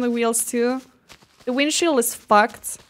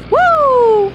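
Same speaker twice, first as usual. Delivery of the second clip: high, loud drawn-out whoop; 13 semitones higher, 8 dB louder than usual. Real, not acted. Player setting off in the car, high whoop. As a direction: let out a long "woo".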